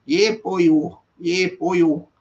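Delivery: imitated Valleys Welsh catchphrase; Ben Pickett's Welsh accent. Streamer showing how his Welsh regular sounds, mock Welsh accent. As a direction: lightly mimic a man from the Welsh valleys. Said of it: "he sounds like Welsh to me".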